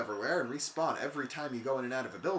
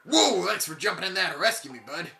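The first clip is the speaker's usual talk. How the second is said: character voice; 5 semitones higher, 8 dB louder than usual. Acted. Voicing NPC dialogue.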